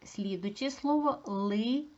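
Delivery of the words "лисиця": careful teacher's syllable demonstration; sounded out. Shown as a demonstration. Teacher sounds out word for analysis.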